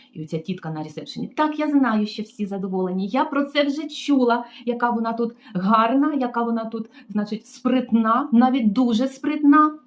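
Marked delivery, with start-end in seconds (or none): 1.3-9.8 sarcastic mimicry. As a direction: drag out the praise with a sneer. Receptionist sarcastic.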